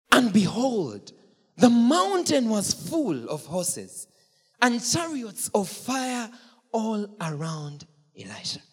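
loud, slow proclamation; preacher proclaiming the heavenly army; proclaimed reveal. Acted. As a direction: announce the vision grandly. Dramatic biblical reveal.

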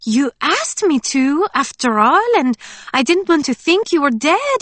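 bubbly friend talking to Scarlet; Emily's voice. A narrator's reading. Friend admitting she kept hoping, high voice.

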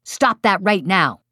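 slow, emphatic order; stern command. Shown as a demonstration. Parent orders child who pushed his sister, stern command. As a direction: order a child, hitting each word. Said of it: "You've avoided the command".

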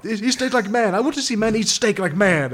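a hammed-up Brazilian chef showing off the diner; mock Brazilian accent, loud. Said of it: "killer Brazilian accent".

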